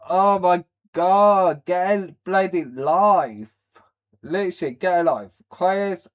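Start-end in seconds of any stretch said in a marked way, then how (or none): 0.1-3.6 slow, louder sneering scoff; mock scoff. Reactor mocking people who cry, slow scoff. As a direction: sneer it out slowly like you're fed up. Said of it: "it's like".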